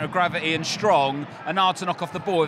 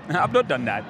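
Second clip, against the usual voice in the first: lightly mocking posh accent; mimicked posh accent; 4 dB louder than usual. Teasing a mate about his posh accent, mimicking it. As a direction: echo the put-on posh voice, amused. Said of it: "that's my posh accent".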